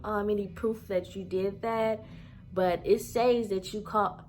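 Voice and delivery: slow, high drawn-out mimic of the clerk; mock clerk voice. Drawn-out mocking impression of the leasing clerk. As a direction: mimic her slow dismissive excuse. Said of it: "And she said".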